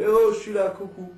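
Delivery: bébé qui interpelle. Acted. Bébé oublié qui se signale. (interpellation aiguë d'un bébé oublié)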